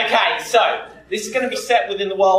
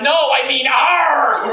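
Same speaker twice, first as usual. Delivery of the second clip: drawn-out mock shout; slow, loud, raised-pitch imitation of an objection; mock protest; 4 semitones higher, 5 dB louder, slower than usual. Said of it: "You're like".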